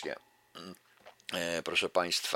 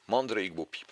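measured, rhythmic reading of a rhymed fable; verse recitation. Acted. Lecturer reciting a Krasicki fable to the audience, measured verse reading. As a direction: recite it like a poem to a class.

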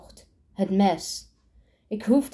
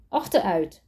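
growled order. A narrator's reading. Amber orders Sander back, knife.

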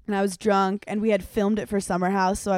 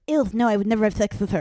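disgusted ew; faster than usual. Retold or imitated. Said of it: "And he goes".

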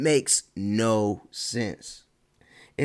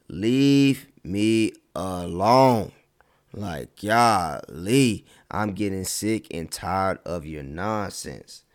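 fed-up groan; 2 semitones lower, much slower than usual. Retold or imitated. Fed up with nosy people.

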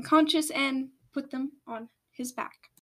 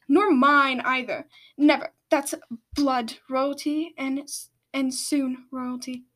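stern rebuke; 2 semitones higher, 4 dB louder than usual. Acted. Queen rebukes Spew slowly.

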